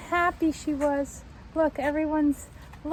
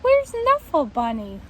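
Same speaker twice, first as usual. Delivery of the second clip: louder, urgent question from a worried mom; alarmed mother; 4 semitones higher, 7 dB louder than usual. Acted. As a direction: ask it at once, startled. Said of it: "she asked".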